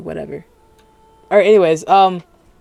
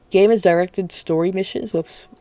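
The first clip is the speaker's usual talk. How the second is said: words slurred around dental retainers; talking with retainers in; 2 semitones higher than usual. Real, not acted. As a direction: speak around a retainer in your mouth. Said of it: "I got my retainers in, so it's harder to talk".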